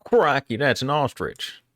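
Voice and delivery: big, high, loud Australian "Crikey" falling off; hammed-up Australian accent, pitched high and loud. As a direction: play an excited Aussie wildlife host spotting an ostrich. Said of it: "You like my Australian accent?".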